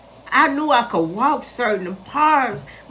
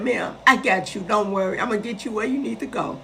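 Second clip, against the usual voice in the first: softer, calm promise of help; gentle reassurance; 4 dB quieter, faster than usual. Retold or imitated. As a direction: reassure her quietly. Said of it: "He said".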